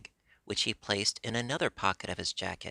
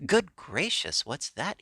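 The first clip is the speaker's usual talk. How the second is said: much higher, louder startled cry; startled yell; 7 semitones higher, 4 dB louder than usual. Acted. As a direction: jump out of your skin and yell. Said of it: "he yelled".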